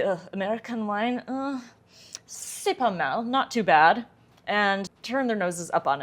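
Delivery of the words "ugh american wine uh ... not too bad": snooty French judge. Retold or imitated. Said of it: "they're probably just gonna say".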